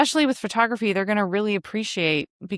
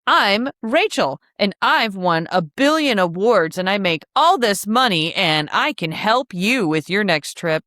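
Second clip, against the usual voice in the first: hammed-up, bouncy sales introduction; self-promoting intro. Travel advisor bragging on her own website, mock self-promotion. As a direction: act out a boastful website greeting with exaggerated swoops. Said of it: "And if it's like".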